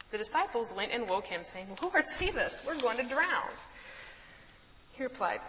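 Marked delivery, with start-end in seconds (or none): 1.8-3.5 high, loud frightened plea for help; panicked cry. Acted. Disciples crying to Jesus in the storm, higher and louder.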